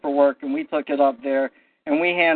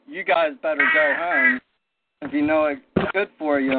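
threatening. Retold or imitated. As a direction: warn them off with a threat. Bailiffs threaten them to leave.

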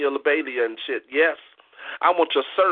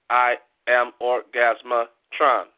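stage persona intro; 4 semitones lower, much slower than usual. Acted. New poet announces stage persona.

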